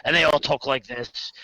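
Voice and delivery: lightly imitated Scottish dwarf; mock Scottish accent. Mimicking video-game dwarves, in a mock Scottish accent. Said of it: "all of their dwarves have Scottish accents".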